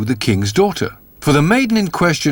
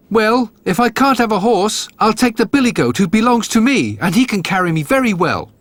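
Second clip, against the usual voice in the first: put-on much higher, eager young simpleton voice; a cheerful naive lad calling out to his brothers; Jack the Dullard; 7 semitones higher than usual. A narrator's reading. Jack answers his father.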